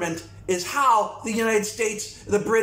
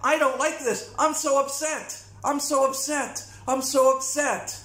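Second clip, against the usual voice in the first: higher, whiny mock complaint; mock whining; 7 semitones higher than usual. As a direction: mimic a spoiled complainer, whining. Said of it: "Instead of".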